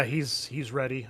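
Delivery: ordinary talk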